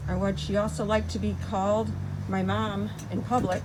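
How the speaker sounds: muffled behind a mask; speaking through a face mask; through a plague doctor mask. Real, not acted. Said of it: "Can you hear me with my mask on?".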